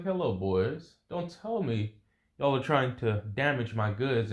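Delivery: lightly acted Latina accent. Female boss confronts intruders damaging her goods, light Latina accent. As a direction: greet the boys with a hint of Latina accent. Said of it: "a Latino-like accent".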